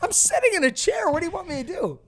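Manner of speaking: loud, squealed comic objection; high-pitched protest. Real, not acted. Teased partner defending himself from the chair, high-pitched protest. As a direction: protest way up high, playfully indignant.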